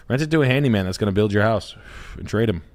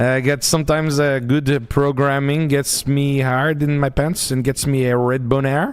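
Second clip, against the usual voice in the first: lightly put-on French accent, halting with uh; a hint of a hesitant Frenchman riffing; understated French accent, lots of uh; French guy bit; 4 semitones higher than usual. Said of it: "your French guy bit".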